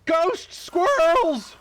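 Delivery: high, slow, eerie wail; haunt the room with it; spooky ghost voice. Acted.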